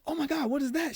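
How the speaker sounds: high-pitched alarmed reaction; imitated startled mother. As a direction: act out Mom's shock in a high voice. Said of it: "She's like".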